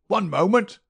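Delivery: put-on old miser crying out harder to halt them. A narrator's reading. Old man insisting from the doorway, loud high querulous cry. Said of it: "cried a querulous voice".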